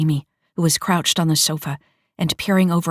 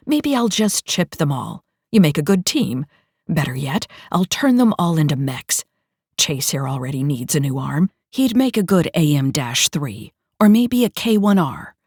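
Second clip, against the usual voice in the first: gloating villain. Acted. Dictator gloating threats.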